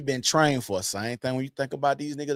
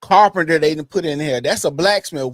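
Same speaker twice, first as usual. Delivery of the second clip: higher and louder, pumping up the crew; rally the men like a gladiator before battle; hyped gladiator speech; 8 semitones higher, 5 dB louder than usual. Retold or imitated. Retelling a gladiator boasting about the Roman army, higher and louder, fired up. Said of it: "He said".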